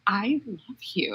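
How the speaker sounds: slow, soft gushing; hushed, lingering mock confession; starstruck adoration. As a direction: draw it out tenderly, as a retold fan. Starstruck fan re-enacted.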